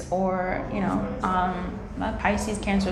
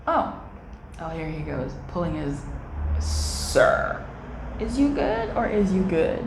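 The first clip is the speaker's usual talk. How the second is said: mock wary; 4 semitones lower, 4 dB quieter than usual. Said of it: "you're like".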